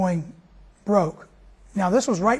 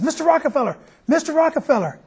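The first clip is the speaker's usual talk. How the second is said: calling out; 6 semitones higher than usual. Acted. Calling out across the park.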